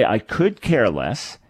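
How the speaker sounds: slow, with "could" stressed and rising. Shown as a demonstration. Host explaining the illogical phrase, stressed "could". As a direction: lean hard on "could", pausing over the phrase. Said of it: "that means that you do care".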